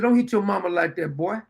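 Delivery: lightly voiced firm scolding of a boy; mild manly warning to a misbehaving child. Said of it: "And I said it in a manly voice".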